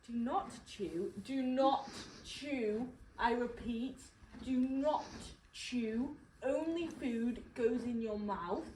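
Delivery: slow, deliberate instruction with weight on "not"; measured, over-careful telling-off; patronising. Real, not acted. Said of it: "I use this tone as well".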